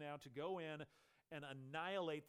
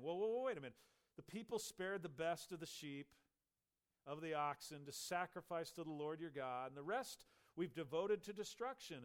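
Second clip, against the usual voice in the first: a touch louder, defensive excuse; backpedaling Saul; 3 semitones higher, 4 dB louder than usual. Acted. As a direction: talk your way out of trouble, a bit raised.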